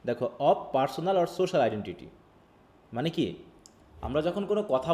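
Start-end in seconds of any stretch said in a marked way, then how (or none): 0.4-2.1 reads each English word out slowly; careful, slow read-aloud; slow textbook reading. Acted. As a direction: dictate it word by word to the class.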